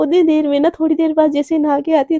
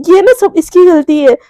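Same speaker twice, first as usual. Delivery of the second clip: angry complaint; 2 semitones higher, 6 dB louder than usual. Acted. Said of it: "एकदम गुस्से में".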